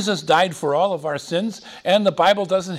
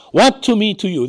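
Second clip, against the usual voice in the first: mock shriek; 6 semitones higher, 6 dB louder than usual. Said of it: "He shrieked".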